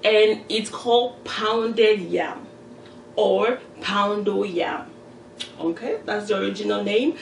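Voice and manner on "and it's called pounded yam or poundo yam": Yoruba accent. Shown as a demonstration. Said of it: "Yoruba accent".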